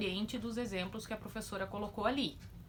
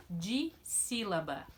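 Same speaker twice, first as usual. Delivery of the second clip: slow reveal; much slower than usual. Shown as a demonstration. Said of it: "teacher reveals term".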